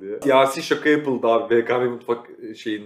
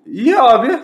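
mock excited; 13 semitones higher, 10 dB louder than usual. Reacting to lahmacun seller.

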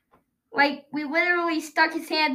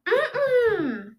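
muffled laugh; 6 semitones higher than usual. Real, not acted. Mouth taped, laughing hum.

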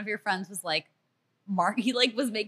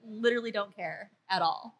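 indifferent; 4 dB quieter than usual. Retold or imitated. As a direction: drop out of the panic into total indifference. Imitating friend's indifference to panic.

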